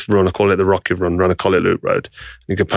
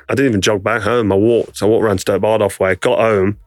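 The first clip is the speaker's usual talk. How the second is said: ordinary delivery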